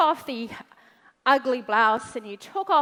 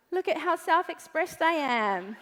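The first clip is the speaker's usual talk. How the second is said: laughing mockery; 2 semitones higher than usual. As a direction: chuckle through the boast. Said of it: "and you're like".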